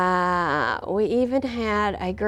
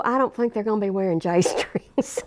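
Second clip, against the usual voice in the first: laughing through it. Retold or imitated. Answering while amused.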